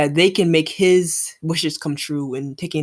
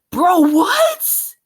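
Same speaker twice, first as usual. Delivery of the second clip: stunned bro what; 12 semitones higher, 7 dB louder, much slower than usual. Real, not acted. Shock at the hit.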